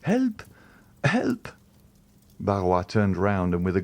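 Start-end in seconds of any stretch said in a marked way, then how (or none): 0.0-1.5 high panicked call for help; desperate cry for help. A narrator's reading. Girl calling for help.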